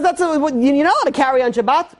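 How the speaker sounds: a strict father scandalized by his son; high, incredulous outrage; outraged father. Retold or imitated.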